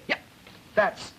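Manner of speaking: yeah cut off short and abrupt; heavy clipping. Shown as a demonstration. Lecturer demonstrating double plus clipping to class, clipped short. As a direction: snap the words off short. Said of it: "double plus clipping".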